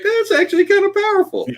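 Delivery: high hammed-up impressed preacher; mock impressed pastor. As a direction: play a pastor struck by an idea. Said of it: "He's like".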